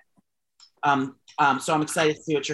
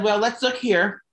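slow bank clerk; 4 semitones higher, slower than usual. Retold or imitated. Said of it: "They call me ma'am".

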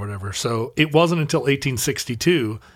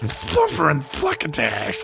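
Sylvester impression.

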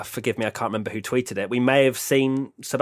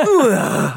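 imitating a sneeze; 6 semitones higher, 7 dB louder than usual. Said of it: "I thought you just went".

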